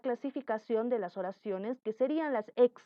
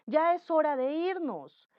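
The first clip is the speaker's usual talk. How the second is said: mother's command; 5 semitones higher than usual. Shown as a demonstration. A mother telling María to bathe, mild commanding call. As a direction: order María to hurry, mildly bossy. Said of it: "Cuando te dicen".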